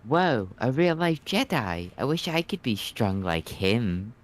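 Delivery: wide-eyed admirer, pitch leaping up on the first words; awed young admirer. Acted. Onlooker dazzled by a real-life Jedi, awestruck. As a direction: act out starry-eyed wonder in a put-on voice.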